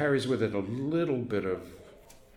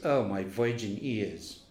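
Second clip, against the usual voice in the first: mock prissy girl; much slower than usual. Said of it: "And she goes".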